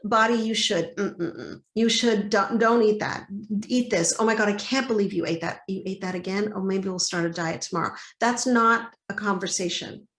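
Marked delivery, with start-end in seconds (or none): 0.0-8.0 nagging body bully. Retold or imitated. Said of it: "Instead of".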